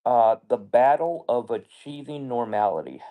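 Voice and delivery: talking with no teeth; gummy speech without dentures; toothless. Real, not acted. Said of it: "It's hard to talk with no teeth".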